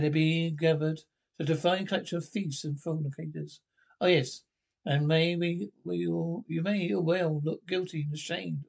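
measured pulpit voice, scolding the flock; pulpit sermon. Acted. Rector scolding his congregation from the pulpit, preaching. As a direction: preach it to the pews.

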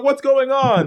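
mock scared kid. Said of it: "He's like".

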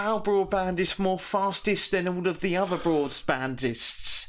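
high, slow sing-song advert pitch; mock broadband advert. Mocking the broadband company's ad in a high, slow salesy voice. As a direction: ham up a cheesy ad announcer. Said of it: "it said to us".

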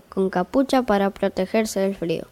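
calm, even fairy-tale reading voice; story narration. A narrator's reading. Narrator opening the tale for listeners, in storytelling voice. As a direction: read it like a bedtime story.

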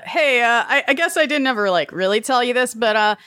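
quick nervous confession to camera; reality TV confessional. Acted. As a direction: confide in the camera, reality-show style. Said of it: "in the confessional style of reality T V".

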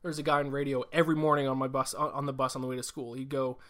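oversell every pick like a morning-radio host; Johnny Broadcast voice. Pretend. Podcaster hams up his weekly picks for listeners, booming announcer voice. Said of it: "like, Johnny Broadcast here".

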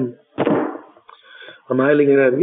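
very slow, savouring הייליגן; hushed reverence for the holy rebbe; reverent drawn-out words. Real, not acted. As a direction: linger on הייליגן with awe.

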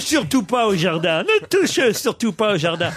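son's letter. Acted.

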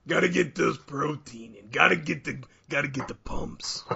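talking around a spoonful of peanut butter; mouth full of peanut butter. Real, not acted. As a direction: mouth full, words thick and muffled. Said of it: "How he's talking and doing a podcast".

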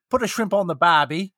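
hammed-up Australian accent; stereotypical Australian. American demonstrating his Australian for Australians, hammed-up accent. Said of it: "Okay, I'm gonna do it".

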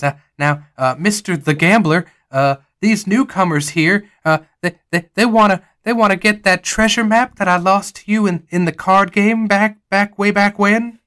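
high, halting, pleading townsman; Jonas. Acted. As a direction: hem and haw your way up high. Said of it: "Jonas walks over to him and he says".

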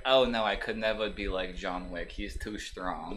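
lightly put-on Jewish accent, slow at the end; a hint of a whiny Jewish accent mocking the vaccinated. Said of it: "you did the Jewish accent for that".

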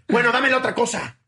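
mock exasperated order; retold angry shouting. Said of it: "ya le sigue gritando".

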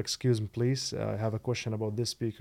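put-on American accent. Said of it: "بلهجة إنجليزية أمريكية".

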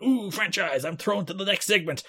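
interviewer impression. Imitating backstage interviewer's hand-off.

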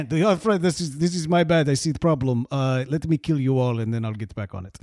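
mock Russian boss owning up; casual menace in a put-on Russian accent. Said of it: "Russian secret headquarters".

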